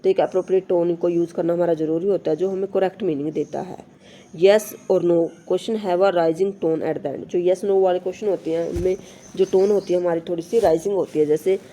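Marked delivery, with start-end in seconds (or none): 4.3-7.2 slow, careful reading of the English text; slow textbook reading. Shown as a demonstration. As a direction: read each word out slowly for the class. Reads textbook rule aloud. (धीमी, साफ़ पाठ्य-पुस्तक पढ़ाई)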